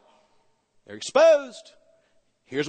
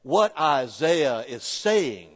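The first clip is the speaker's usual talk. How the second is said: slow, lower, measured professor voice; elegant professor; 5 semitones lower, slower than usual. Retold or imitated. Seminary professor explaining Isaiah to his class, slow and elegant. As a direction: imitate the elegant seminary professor, drawn out slowly. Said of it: "he talked like this".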